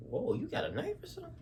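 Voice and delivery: very high, fast startled yelp; alarmed. Retold or imitated. Bumped man hearing the threat, high fast alarm. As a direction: blurt it out in sudden alarm.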